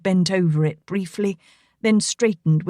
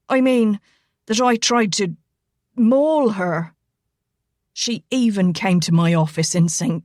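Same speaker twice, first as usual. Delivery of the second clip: lightly voiced Irishman, stumbling then troubled; Irishman's account. Rigo admitting to Elena he doesn't know, lightly voiced and troubled. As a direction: let him falter, then trail off lost.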